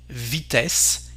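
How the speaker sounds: "vitesse" ending in open "eh" plus S. Shown as a demonstration. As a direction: say "vitesse" as "vee-TESS". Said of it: "here the sound is E".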